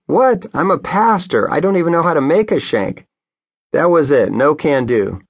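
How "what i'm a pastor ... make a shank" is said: high, disbelieving outburst; can't believe what he just heard; incredulous. Retold or imitated. Pastor protesting to the deputy, incredulous and high. Shocked at the shank accusation.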